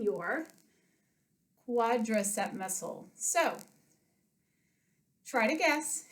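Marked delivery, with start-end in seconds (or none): 5.3-6.0 winded after frog jumps; breathless coach voice; out of breath. Real, not acted. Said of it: "I'm a little out of breath".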